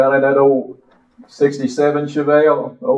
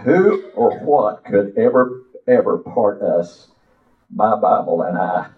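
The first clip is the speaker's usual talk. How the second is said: slow, sing-song preacher recitation; poem recital. Acted. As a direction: recite it like a hymn from the pulpit.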